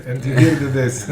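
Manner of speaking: laughing mock Russian accent; hammed-up Russian accent through laughter. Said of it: "This is my best Russian accent".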